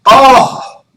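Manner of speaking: a loud, high "Oh" of sudden understanding; realization oh. Retold or imitated. Coach retelling the client finally understanding, loud surprised oh. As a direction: play the gentleman finally getting it. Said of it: "he finally went".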